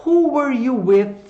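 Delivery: "Who" high and loud, falling through the question; stress on WHO. Shown as a demonstration. Teacher models a long question, stress on "Who". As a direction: punch "Who" and slow the rest. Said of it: "a entonação tá nas palavrinhas com W H".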